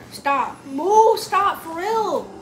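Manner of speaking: loud yelling stop while tickled; being tickled. Real, not acted. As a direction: shout while squirming.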